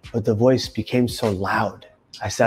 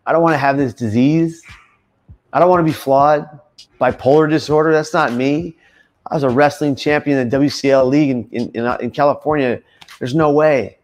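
louder, higher insistent protest; defiant denial; 5 semitones higher, 5 dB louder than usual. Retold or imitated. Young man refusing his bipolar diagnosis, loud defiant denial. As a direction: push it away, refusing the diagnosis outright.

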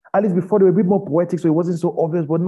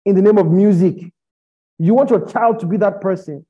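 raised, insistent preaching voice; impassioned rebuke; 4 semitones higher, 4 dB louder than usual. Real, not acted. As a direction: challenge the listeners forcefully, pitched up.

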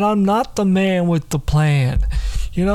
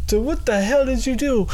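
high voice; 7 semitones higher than usual. Retold or imitated. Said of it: "He's like".

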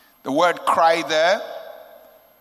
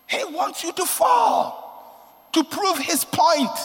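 preaching shout; 13 semitones higher, slower than usual. Acted. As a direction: hammer the warning home. Preacher drives point home.

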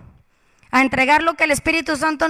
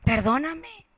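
whispered plea; 7 dB quieter than usual. Retold or imitated. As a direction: whisper it, ashamed, begging pardon. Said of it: "Y yo le dije al Señor". (susurro avergonzado pidiendo perdón)

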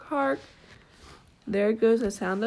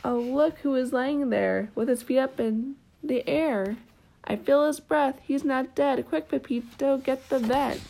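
excited discovery; 4 semitones higher than usual. Acted. Children find the fallen horse.

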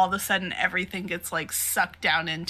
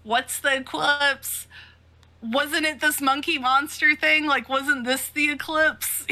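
excited demands; 6 semitones higher, 5 dB louder than usual. Acted. Guts voiced demanding answers.

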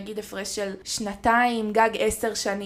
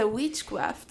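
imitating Hungarian accent. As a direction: copy her accent on witchcraft. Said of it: "ואת כזה".

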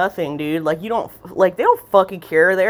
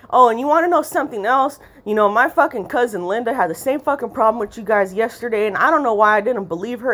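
ranting customer; 5 semitones higher than usual. Retold or imitated. Voicing customer's third rant.

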